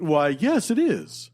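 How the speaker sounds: mock polite answer; playing along. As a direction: answer sweetly as if fooled. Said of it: "do that".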